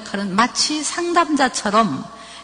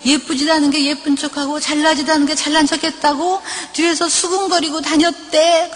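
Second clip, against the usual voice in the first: tearful complaint; 4 semitones higher than usual. Retold or imitated. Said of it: "막 엉엉엉 우는 거예요".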